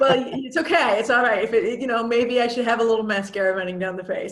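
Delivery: brushing off tears with a laugh. Real, not acted. Host near tears reassuring herself, laughing.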